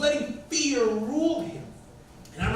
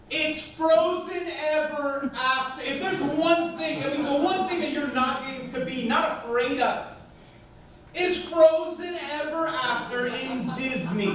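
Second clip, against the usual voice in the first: slow, higher, drawn-out disbelief; exasperated disbelief; 3 semitones higher, slower than usual. Retold or imitated. Father tells his scared son the ride is harmless, slow and exasperated. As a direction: stretch it out like it's obvious.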